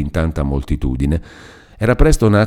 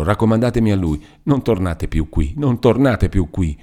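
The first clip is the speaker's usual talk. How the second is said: breathless, pleading repetitions; Lucia's desperate plea; 2 semitones higher than usual. Acted. Lucia desperately begs Renzo to stop. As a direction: beg him to stop, desperate.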